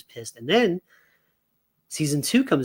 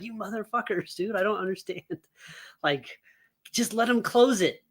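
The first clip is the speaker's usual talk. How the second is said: 笑いながら呆れて; laughing exasperation; 4 semitones higher, 4 dB quieter than usual. Retold or imitated. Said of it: "I'm like".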